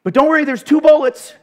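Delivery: high, loud, laughing through a silly battle plan; cracking up as the panicky soldier; giggling soldier hamming up two bullets; laughing mock army plan. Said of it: "be like".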